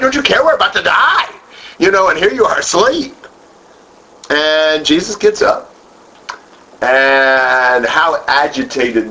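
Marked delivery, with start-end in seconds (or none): 0.0-3.2 high, frantic plea to wake him; panicked disciples. Retold or imitated. Disciples shaking Jesus awake in the storm, frantic high plea. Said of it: "you can imagine them shaking him awake".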